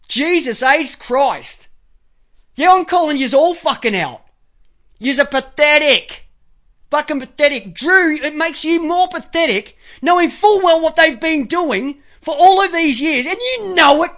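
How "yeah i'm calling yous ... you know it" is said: heated, higher-pitched accusation; exasperated, emphatic rebuke; angry call-out. Real, not acted. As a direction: lay into them with indignation. Calls Drew out as pathetic.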